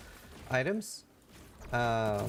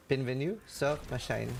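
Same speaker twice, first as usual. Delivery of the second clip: put-on French accent. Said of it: "what I tried to say".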